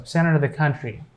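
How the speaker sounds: "of" in "center of the country" said as "a"; reduced "of". Shown as a demonstration. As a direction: shrink "of" to a short "a". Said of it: "we are pronouncing A there".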